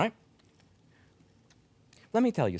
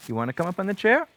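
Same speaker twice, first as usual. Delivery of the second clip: louder, faster, higher urging; bright pushy coax; eager coaxing; 4 semitones higher, 5 dB louder, faster than usual. Real, not acted. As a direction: hurry the cat up onto the chair. Urging cat to jump up.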